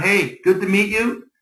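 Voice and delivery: upbeat greeting with a lifted ending; strong, engaged hello; confident greeting. Shown as a demonstration. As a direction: greet them boldly, full of presence. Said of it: "Walk around".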